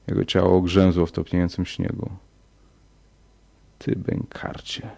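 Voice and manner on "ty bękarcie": a hint of an Australian accent, slow and hushed. A narrator's reading. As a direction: spit it softly in a light Australian accent. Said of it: "z australijskim akcentem". (cicho z lekkim australijskim akcentem)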